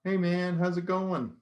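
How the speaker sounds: high comic voice. Acted. One comic character greeting another, high and loud. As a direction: pitch it way up for the first character.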